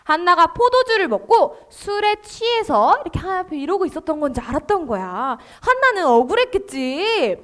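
ordinary talk, nothing marked

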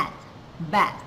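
"at" on its own, then blended into "bat"; sounding out. Shown as a demonstration. Teacher shows learners blending, "at" separately then whole "bat". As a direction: read the ending "at" apart, then join it as "bat". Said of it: "กับข้างหลังเป็น at".

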